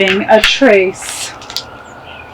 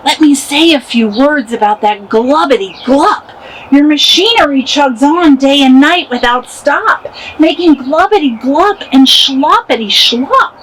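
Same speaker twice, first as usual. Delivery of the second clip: snapping; 3 semitones higher than usual. Acted. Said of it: "he snapped".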